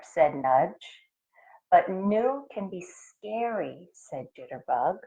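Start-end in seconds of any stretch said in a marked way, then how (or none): 1.7-3.9 a touch of fear; scared. Acted. Jitterbug frightened.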